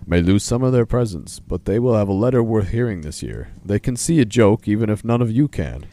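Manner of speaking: loud, hammed-up bear voice; Polar Bear. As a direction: announce it loudly as a storybook bear. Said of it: "Do you wanna do Polar Bear's voice?".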